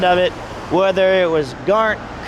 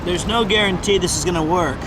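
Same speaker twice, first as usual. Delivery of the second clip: talking with a swollen lip. Real, not acted. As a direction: numb swollen mouth after dentist. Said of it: "my mouth is swollen because of the dentist".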